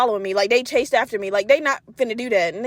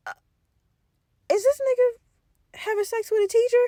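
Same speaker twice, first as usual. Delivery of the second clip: shocked disbelief; 9 semitones higher than usual. Retold or imitated. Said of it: "And I'm like".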